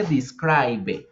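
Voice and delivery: "describe" with the final E sounded, "dis-krai-be"; spelled-out pronunciation. Shown as a demonstration. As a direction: read "describe" Spanish-style, ending in "be". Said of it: "en presente no decimos describe".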